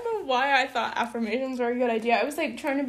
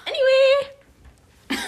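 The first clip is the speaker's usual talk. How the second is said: drawn-out anyway; 12 semitones higher, 4 dB louder, much slower than usual. Real, not acted.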